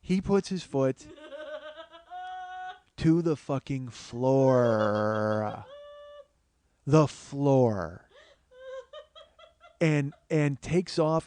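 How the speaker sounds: slow, broken by laughter; can barely get the words out laughing; laughing through it. Real, not acted. Comic recalling the cab launch, laughing helplessly.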